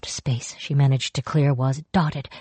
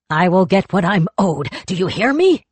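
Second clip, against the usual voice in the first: loud rising threat; menacing demand; 4 semitones higher, 4 dB louder than usual. Acted. Greedy spirit threatens the fog, loud. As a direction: insist with menace.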